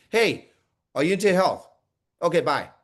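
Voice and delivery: quick, cursory check-in then dismiss; perfunctory asking. Shown as a demonstration. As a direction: ask just to get it over with. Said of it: "are you just asking".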